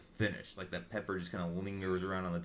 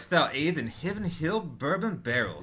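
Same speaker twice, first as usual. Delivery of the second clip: higher, louder smooth seducer voice; ladies' man voice; 8 semitones higher, 8 dB louder than usual. Acted. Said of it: "read this like the ladies' man would read it".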